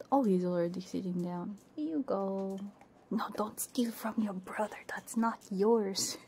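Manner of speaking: ordinary talk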